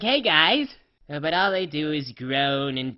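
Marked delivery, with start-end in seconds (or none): 0.0-0.7 bright, louder greeting shout; cheerful call. Retold or imitated. Pony greeting the zombie ponies, loud and cheerful. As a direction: call out a friendly hello. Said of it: "I'm like".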